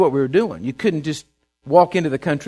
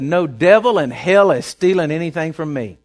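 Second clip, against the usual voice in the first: bold declaration; 4 dB louder than usual. Shown as a demonstration. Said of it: "Said it just like that".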